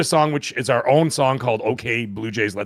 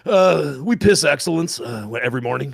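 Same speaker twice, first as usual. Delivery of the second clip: Talladega Nights quote; 2 semitones higher than usual. Retold or imitated. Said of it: "what's his name say in Talladega Nights".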